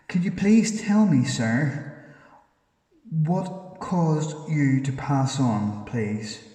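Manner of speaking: slow, loud, pleading call into the dark; calling out to a spirit. Real, not acted. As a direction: drag each word out so the spirit can follow. Asking a spirit a question.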